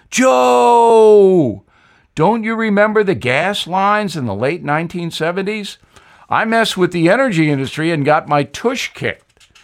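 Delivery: a ghostly Southern warning to Joe; Jimmy Carter. Acted. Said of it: "I'd know that accent anywhere".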